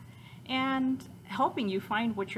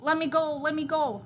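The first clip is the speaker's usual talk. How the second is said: high, louder squealed plea; piglet squeal; 10 semitones higher, 6 dB louder than usual. Acted. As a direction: squeal to be released, storybook style. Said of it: "The piglet kicked and squealed".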